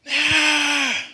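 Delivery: high, loud drawn-out shout; retold yell. Car passengers yell at a boy walking by, loud high yell. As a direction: holler one long cry, high and loud. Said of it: "and they yell".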